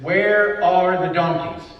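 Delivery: drawn out, as if the only thought in his head; Where leaned on, then a slow fall; slow musing. Retold or imitated. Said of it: "Saul's entire thought in this is".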